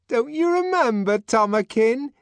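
high, rising, eager question; pleading Linda. Acted. Linda urging the director, high and hopeful. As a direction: coax him to remember.

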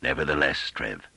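low, calm insistence; hypnotic calmness. A narrator's reading. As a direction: settle the voice and drop it at the end. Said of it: "with an almost hypnotic calmness".

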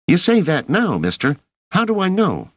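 put-on high cheeky boy voice, bargaining; street kid haggling. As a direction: push for a payoff, cocky. Rache doubts.

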